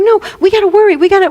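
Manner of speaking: mock fretful, high-pitched; lightly acted anxious insistence; stressed part. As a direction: interrupt with a worried protest. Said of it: "the stressful part is like".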